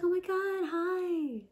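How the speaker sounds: high breathy-free squeal of delight; flirty squeal. Pretend. Acting out a flirty hug greeting.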